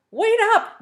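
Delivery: high, loud "wait up"; sharp call to stop. A narrator's reading. Mar stops the boys' rush of wishes, a high loud call. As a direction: cut them off to get it right. Mar halts the eager boys.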